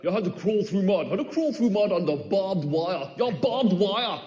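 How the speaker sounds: hammed-up tough-guy boast; a mate bragging about his mud run, mock macho. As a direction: puff up like a gym lad bragging. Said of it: "He's all like".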